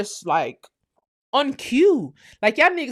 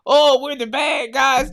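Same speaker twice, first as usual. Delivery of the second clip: mock victim; 2 semitones higher, slower than usual. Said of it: "it's like".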